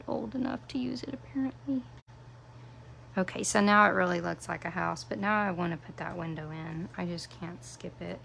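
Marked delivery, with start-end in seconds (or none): 0.1-1.8 fast, unvoiced self-mocking whisper; hushed joke at own expense; whispered aside. Real, not acted. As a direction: tease yourself under your breath. Self-mocking aside after glue mess.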